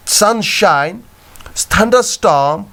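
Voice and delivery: "Sunshine" and "thunderstorm" with weight on both halves; double stress. Shown as a demonstration. Teacher giving examples of compound words, both halves of "Sunshine, thunderstorm" stressed. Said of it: "A pattern of two subsequent stressed syllables".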